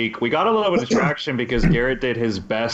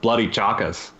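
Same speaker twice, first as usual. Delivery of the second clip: tentative imitation of Australian; unconvincing Australian accent; attempted Australian accent; 4 semitones lower than usual. Shown as a demonstration. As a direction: copy an Aussie accent, half-heartedly. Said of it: "give us your Australian accent".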